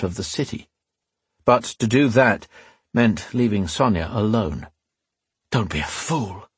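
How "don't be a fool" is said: quietly to himself. Acted. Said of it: "he told himself".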